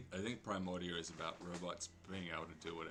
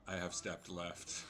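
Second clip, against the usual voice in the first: parser voice; slower than usual. Pretend. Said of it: "a parser version".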